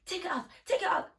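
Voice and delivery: high, laughing imitation of him brushing her off; mock dismissive guy. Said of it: "He's like".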